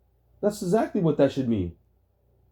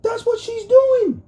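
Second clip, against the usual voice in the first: emphatic shout; 6 dB louder, slower than usual. Real, not acted. Insisting in heated argument.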